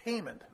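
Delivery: "payment" said slowly and separately; deliberate emphasis on "payment"; stress on "payment". Real, not acted. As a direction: set "payment" apart from the lead-in. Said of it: "I emphasize the word payment".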